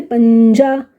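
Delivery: पंजा with the nasal held before जा; nasal drawn out. Shown as a demonstration. Teacher showing which nasal पंजा has, drawn out. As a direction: linger on the nasal inside पंजा. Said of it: "यहाँ आ गया".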